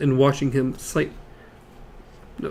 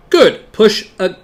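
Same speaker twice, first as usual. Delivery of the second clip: high, loud machine voice; mechanical voice; 5 semitones higher, 5 dB louder, slower than usual. A narrator's reading. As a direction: speak like a cheerful machine. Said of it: "the mechanical voice died out".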